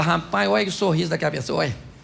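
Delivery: admiring murmur. Retold or imitated. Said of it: "o outro fala".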